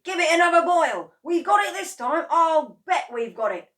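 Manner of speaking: high, loud and eager; excited. A narrator's reading. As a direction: cheer the brew on. Mr Kranky urging, excited.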